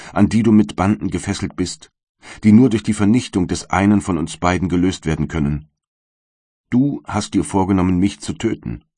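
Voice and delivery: a light voicing of the wretched creature; bitter creature. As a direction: plead and accuse at once, in the creature's role. Monster threatens its creator.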